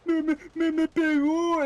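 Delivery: high tattletale voice, half Spanish; whiny kid voice. Retold or imitated. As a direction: whine it like a kid telling on someone. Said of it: "he would come home and be like".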